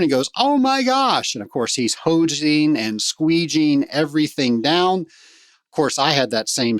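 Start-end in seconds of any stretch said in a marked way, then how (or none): 0.4-1.4 high-pitched mock "oh my gosh"; retold shock, voice jumping high; imitated dismay. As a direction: act out a startled reaction, pitched well up. Bruce sees the foam-filled room.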